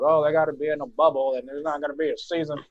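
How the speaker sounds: lightly mock the naysayers in a white guy voice. Podcaster mimicking talk of a cancelled season, white guy voice. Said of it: "I really like your white guy voice".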